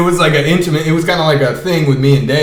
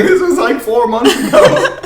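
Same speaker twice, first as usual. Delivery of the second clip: mock shock; 13 semitones higher, 5 dB louder than usual. Imitating Theo's startled reply.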